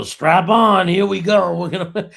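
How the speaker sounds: hammed-up pep-talk holler; mock hype shout. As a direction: act out an overeager coach firing everyone up. Imitates coach hyping up a crowd.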